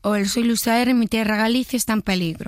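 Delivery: put-on copied Galician-accented character voice; Luis Zaera. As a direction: imitate the actor's everyday intonation. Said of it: "reproducir estas frases imitándome a mí". (imitación con entonación gallega)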